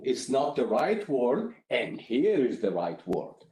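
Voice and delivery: helpful, patient correction with the fix offered; constructive correction. Shown as a demonstration. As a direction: gently correct and give the right word. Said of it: "be a little bit more constructive".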